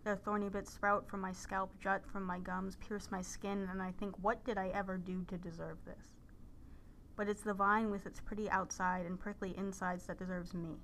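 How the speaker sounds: measured, level-toned poem recital; poetry reading. Acted. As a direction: read the poem evenly, pausing between lines. Reads a poem aloud.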